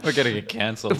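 put-on light Australian accent. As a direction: say it like an Aussie. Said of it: "that was quite a good Australian accent".

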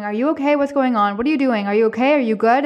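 mock-worried rapid questioning; mildly panicked retelling. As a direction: imitate someone freaking out, lightly. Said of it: "shaking me in my face and freaking out".

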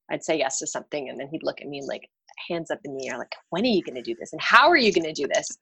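ordinary talk, nothing marked

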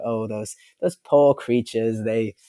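drawn-out, lightly British pity; slight British accent. Acted. Future people looking back at us, slight British accent. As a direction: put on a hint of a British accent. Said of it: "doing a slight British accent".

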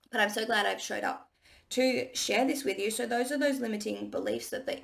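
husky, just-woke-up voice; husky morning voice. Real, not acted. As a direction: talk through a husky morning throat. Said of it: "my poor husky morning voice".

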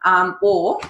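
pinched nose voice; pinching nose. Real, not acted. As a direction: talk with the nose held shut. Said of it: "with my nose pinched like this".

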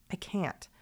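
breaks down to a voiceless whisper; emotional whisper. Real, not acted. To her podcast listeners, wishing to meet them, a tearful whisper. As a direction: let the words barely come out, choked up. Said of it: "I'm gonna get emotional".

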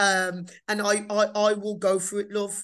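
light Black Country accent. Shown as a demonstration. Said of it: "I'm proud of my Black country accent".

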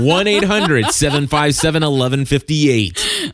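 slow, booming radio promo read; cheesy announcer voice. Acted. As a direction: sell the number like a hammy announcer. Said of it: "you pulled out that cheesy announcer voice".

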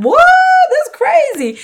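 high-pitched mock disbelief; retold shock. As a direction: squeak it out like you can't believe the price. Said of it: "I was like".

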